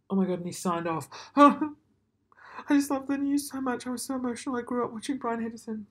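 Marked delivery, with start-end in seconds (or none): 1.3-5.2 high laughing delight; high-pitched laughing affection; laughing gush. Real, not acted.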